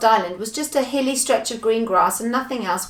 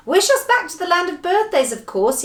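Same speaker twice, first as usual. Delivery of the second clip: high-starting eager shout; urgent raised cry that settles at the end; excited yell; 9 semitones higher, 3 dB louder than usual. Acted. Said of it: "yelled everyone in excitement".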